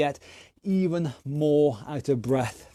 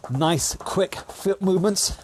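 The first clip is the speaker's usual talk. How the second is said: coach cheering on; 4 semitones higher than usual. Real, not acted. Coach calling out during drill.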